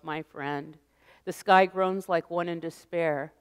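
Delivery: poem reading. Acted. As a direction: read it like a night prayer to a friend. Reads Tagore poem aloud.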